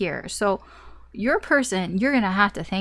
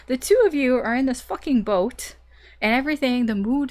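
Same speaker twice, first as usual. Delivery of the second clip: getting excited; 4 semitones higher, 4 dB louder than usual. Real, not acted. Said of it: "Got a little, little excited there".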